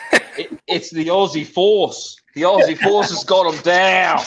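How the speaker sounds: loud, high, drawn-out proclamation; hammed-up shout, stretching the key words; mock dramatic cry. Friend joking about the Aussie Force, mock dramatic cry.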